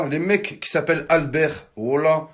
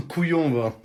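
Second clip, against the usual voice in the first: laughing. Real, not acted. Laughing after arm squeeze.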